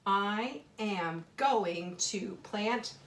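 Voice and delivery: very slow, word by word, rising on plant; slow dictation. Shown as a demonstration. Teacher reads her sentence slowly to the children. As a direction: read it out slowly for the class. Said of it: "rereading her sentence while writing".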